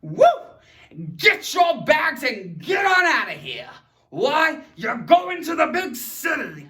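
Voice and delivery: loud cheering orders; mock excited shout. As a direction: send them off with glee. Excited shouted command example.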